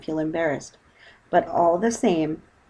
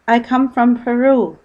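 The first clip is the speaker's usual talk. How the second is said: spluttering; 6 semitones higher, 9 dB louder, slower than usual. Acted. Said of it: "spluttered Paddington".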